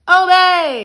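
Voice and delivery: high, loud hammed-up "Obey!"; mock monster shout; monster command. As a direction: bellow the order like the monster. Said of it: "monster quote".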